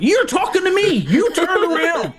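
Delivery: mock him back in a squeaky voice; high, slow taunting to the man in line. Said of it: "I'm like".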